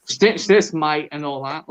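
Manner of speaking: a lightly put-on dodgy Australian accent; hammed-up bad Aussie accent. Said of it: "I've turned him dodgy Australian".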